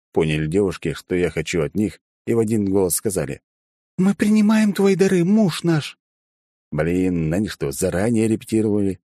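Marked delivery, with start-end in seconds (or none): 4.0-6.0 high, loud ritual vow; solemn vow. A narrator's reading. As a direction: pledge it solemnly together. Girls vow in unison. (торжественная клятва)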